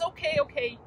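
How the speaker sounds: soothing grown-up. Retold or imitated. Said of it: "a grown-up comes along and says".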